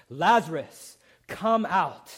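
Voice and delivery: loud, high commanding call; bellowing. Acted. Jesus calling dead Lazarus out of the tomb, bellowing. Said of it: "he bellows out".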